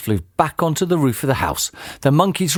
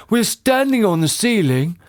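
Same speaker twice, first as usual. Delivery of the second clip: astonished husband, moderately raised pitch; shocked gasp; 8 semitones higher than usual. A narrator's reading. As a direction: realise it in amazement. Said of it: "gasped Mister Twit".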